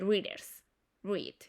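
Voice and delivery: "readers, read" with no roll on the R; soft single R. Shown as a demonstration. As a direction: keep the R of "readers, read" light. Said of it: "es la R para todos".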